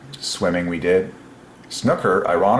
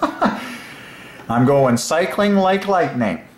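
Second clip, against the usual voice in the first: laughing it out, higher and very slow; delighted laughing chant; 8 semitones higher, much slower than usual. Real, not acted. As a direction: giggle through the words, stretching them. Delighted with his own phrase.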